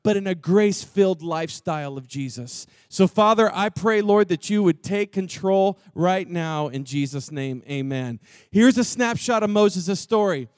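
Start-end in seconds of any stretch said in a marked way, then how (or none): 0.0-8.2 prayer. Acted. Pastor praying over the room, earnest prayer. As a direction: pray it gently over the band.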